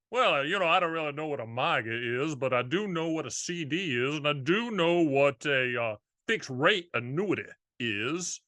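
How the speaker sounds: lightly put-on Charleston Southern accent; a hint of a Southern cartoon rooster accent; easygoing Charleston Southern accent, lightly done; Foghorn Leghorn Southern accent. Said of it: "They talk like this in Charleston, like Foghorn Leghorn".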